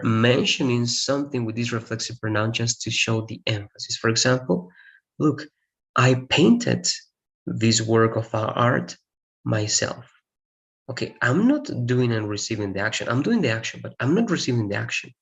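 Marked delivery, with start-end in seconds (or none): 5.9-10.1 slow build landing on myself; stress on myself. Shown as a demonstration. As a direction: lean on the word myself at the end. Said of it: "I'm putting emphasis on the idea that I did it".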